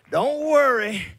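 high, loud reassuring voice of God; God tells his people not to worry, loudly reassuring. Retold or imitated. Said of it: "God is saying".

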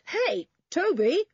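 high, loud, drawn-out hail; yell. A narrator's reading. Julian hails Toby in the barn, yelling. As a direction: yell to get attention. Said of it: "yelled Julian".

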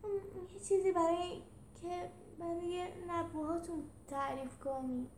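high, hurt character voice, hesitant; wounded, high-pitched justifying; upset. Acted.

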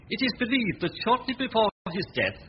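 reading the report aloud, a touch formal; newspaper read. Acted. Manservant reading the news report aloud to Temple, formal read. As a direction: read the paper out to the master.

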